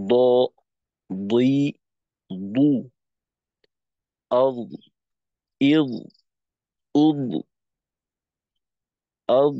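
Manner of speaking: heavy দ, দুই, দু with the voice kept going; ḍad letter sounds. Shown as a demonstration. Teacher demonstrating the ḍad sound to the class. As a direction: say আদ, ইদ, উদ thick with a held voiced stop. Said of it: "উচ্চারণটা হবে এমন".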